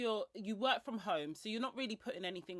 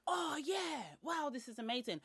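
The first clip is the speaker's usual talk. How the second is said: gullible shopper; 7 semitones higher than usual. Retold or imitated. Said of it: "are like".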